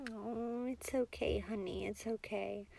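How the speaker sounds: soft, soothing comfort; tender reassurance. Acted. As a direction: gently reassure someone who is hurting. Comforting a partner who feels down.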